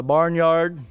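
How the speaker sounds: "Barnyard" said slowly, in place of "Brainerd"; mispronounced name. Retold or imitated. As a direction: draw out "Barnyard" as a mistaken announcement. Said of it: "I've been announced as that before".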